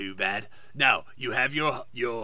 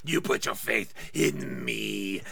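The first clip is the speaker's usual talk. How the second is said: whispered villain taunts; reading Voldemort lines aloud as a joke; mock Voldemort; 3 dB louder than usual. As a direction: sneer and cackle the lines. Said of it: "it actually says yee hee hee".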